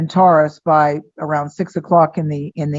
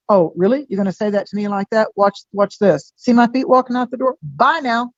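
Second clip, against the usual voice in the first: mock-indignant, rising into a higher dismissal; sassy comeback; 4 semitones higher than usual. Uranus telling someone off before walking out, sassy. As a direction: act out a defiant walk-out. Voicing Uranus's walk-out attitude.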